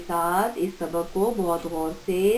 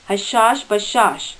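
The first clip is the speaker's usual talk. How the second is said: slow careful dictation; slower than usual. Shown as a demonstration. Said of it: "ان املا کے الفاظ کو غور سے پڑھیں".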